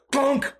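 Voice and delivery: a quick high clunk sound; the dog hitting the locked door; imitated thud. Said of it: "He would just go".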